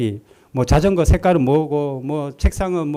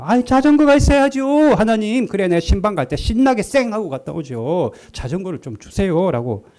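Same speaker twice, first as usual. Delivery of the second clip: whiny pleading; 5 semitones higher than usual. Retold or imitated. Pastor whining to God for a bicycle, much higher. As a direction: beg like a sulking child. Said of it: "투정을 부렸다".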